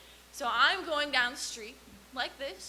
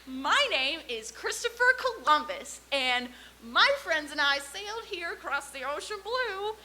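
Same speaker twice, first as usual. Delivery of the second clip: bright explorer voice; 2 semitones higher than usual. Retold or imitated. Columbus greeting the chief at the teepee, lightly voiced cheerful pitch. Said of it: "and Columbus goes".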